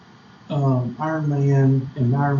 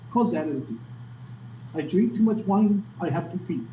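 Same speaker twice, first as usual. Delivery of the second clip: put-on a light French accent on the Matrix line; lazy French accent, bored waiter style; 3 semitones higher than usual. Retelling the Matrix scene to the class, light French accent. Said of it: "talks French accent".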